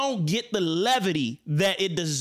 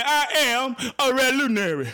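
higher, mocking imitation of the movie line; mocking the actor; 7 semitones higher, 5 dB louder than usual. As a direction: ham it up like the film version. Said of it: "say it with me".

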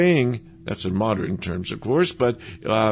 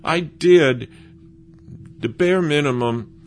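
defensive Saul; 5 semitones higher, 5 dB louder than usual. Retold or imitated. Saul's whiny excuse voiced.

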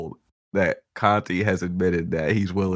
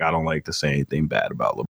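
fast mock quote; 6 semitones lower, faster than usual. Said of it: "I make jokes like".

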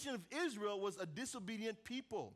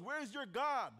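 higher-pitched mock questioning, imitating a taunt; 4 semitones higher than usual. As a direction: needle them as the retold prophet. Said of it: "begins to taunt them".

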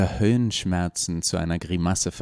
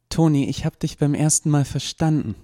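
impatient; 8 semitones higher, 4 dB louder than usual. Acted. Impatient interruption.

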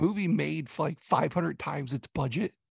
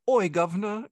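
mock Cockney accent; 5 semitones higher, 3 dB louder than usual. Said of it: "most Britishy, rednecky accent".

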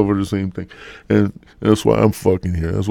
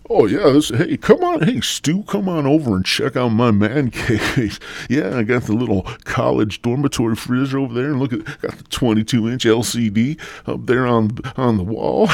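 proud man-cave dad; 3 semitones higher than usual. Acted. Husband inviting Stu to see his man cave, mock proud. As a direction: play the proud host showing off, a little hammed-up.

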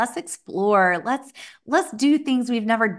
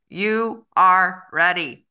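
slow booming megaphone call; bullhorn with siren; 5 dB louder, slower than usual. Shown as a demonstration. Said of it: "a megaphone voice".

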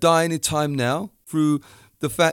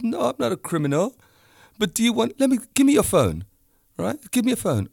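higher, heated retelling of his comeback; worked-up retort; 9 semitones higher, faster than usual. Retold or imitated. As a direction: push back, getting fired up. Retold argument, challenging friend.

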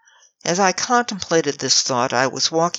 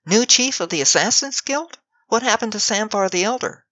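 shocked; 6 semitones higher than usual. A narrator's reading.

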